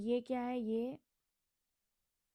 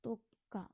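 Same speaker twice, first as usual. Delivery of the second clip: तो का with a clear pause between the two syllables; syllable-by-syllable demo of तो का; split into syllables; 4 dB quieter than usual. Shown as a demonstration. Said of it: "यानी कि तोका।".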